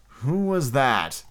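slow, drawn-out challenge; calling out warily. A narrator's reading. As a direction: call slowly through the door. Peter calls out at a knock.

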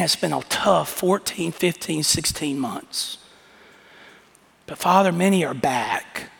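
earnest prayer voice. Acted. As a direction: lead the congregation in thanks. Pastor leads closing prayer.

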